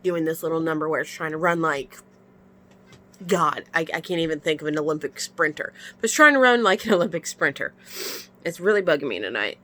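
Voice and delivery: sniffly after crying; runny nose. Real, not acted. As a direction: talk through a stuffy nose. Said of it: "I've been crying, so my nose is".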